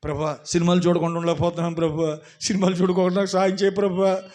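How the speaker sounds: rising loud, begging mock prayer to the Lord; mock pleading prayer. Preacher mocking a believer's prayer, loud pleading. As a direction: ham up a believer's desperate plea. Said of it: "అంటున్నావా?".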